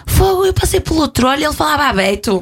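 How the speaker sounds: high, mocking Porto voice imitating a northerner; mock Porto accent. Mocking Porto accent, quoting northerners. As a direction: imitate how Porto folk talk about Lisbon. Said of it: "ah, fica assim".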